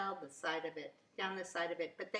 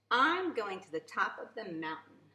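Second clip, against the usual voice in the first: mild shout; 2 semitones higher, 5 dB louder than usual. Acted. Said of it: "he shouted".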